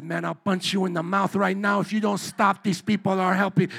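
lightly imitated Puerto Rican accent; a touch of Puerto Rican street talk. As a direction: threaten in a rough attempt at a Puerto Rican accent. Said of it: "This is my accent".

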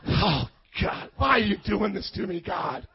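hammed-up groan of self-pity; mock despairing plea. Mimics complaint to God over commands.

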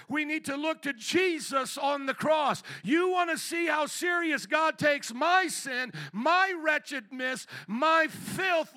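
urgent pulpit delivery, ringing out; forceful preaching. Real, not acted. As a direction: preach it hard to the congregation.

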